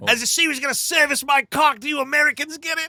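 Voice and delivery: high, loud, fast brag; cocky Aussie hero. Pretend. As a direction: play the crude show-off. Mocking Australian hero.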